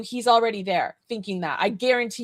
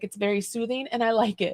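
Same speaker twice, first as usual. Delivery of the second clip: ordinary talk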